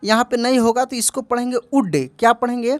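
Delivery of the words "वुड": "वुड" said with no l sound; "वुड" said as "wood", l left silent. Shown as a demonstration. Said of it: "एल silent रहेगा".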